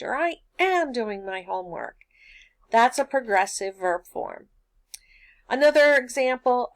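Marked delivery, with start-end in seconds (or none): 0.1-2.0 AM leaned on in reply; stress on AM. Acted. Student insisting to mom about homework, stress on AM. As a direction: push the word "am" to insist. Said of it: "look around at her and you say".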